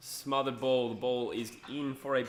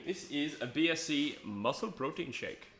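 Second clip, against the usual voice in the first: put-on light, slowed Indian accent; 3 semitones higher than usual. Streamer tells viewers his drink, mild slow Indian accent. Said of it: "said it with an Indian accent".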